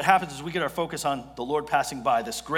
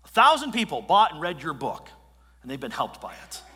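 wife confronting him; 5 dB louder than usual. Retold or imitated. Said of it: "She said".

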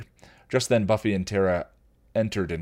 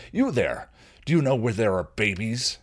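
a touch louder troll hail; troll calling out; 4 semitones higher, 4 dB louder than usual. Acted. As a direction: call across the bar. Troll calls out to them.

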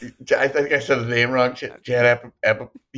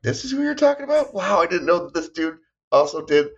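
surprised; 8 semitones higher than usual. Retold or imitated. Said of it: "I thought, like".

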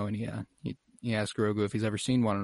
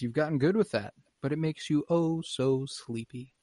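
mock villain taunt; 5 semitones higher than usual. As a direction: toy with a worn-out little captive, slowing at the end. Voicing villain taunting worn-out Grogu.

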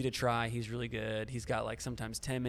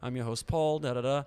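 light imitation of a British host; Paul's British accent; 3 semitones higher, 3 dB louder than usual. Imitating a British reviewer greeting viewers, lightly British. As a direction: breeze through a British channel intro. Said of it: "it's not an annoying British accent".

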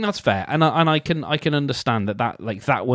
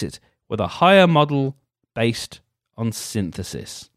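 mock-earnest reading; reading aloud; 3 dB louder than usual. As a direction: read it like a horoscope entry.

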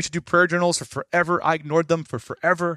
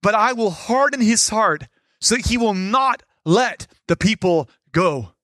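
voice of God; 3 semitones higher than usual. Acted. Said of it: "he said in four twenty-one".

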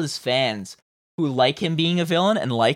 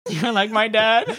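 mocking high voice; 8 semitones higher, 3 dB louder, slower than usual. Friend echoes the mock voice.

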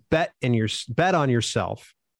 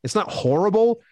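lukewarm self-verdict; 7 semitones higher than usual. Retold or imitated. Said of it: "I'm like".

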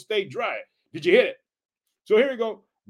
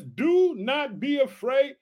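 proclaiming; 5 semitones higher, much slower than usual. Acted. Preacher proclaiming prophet's words.

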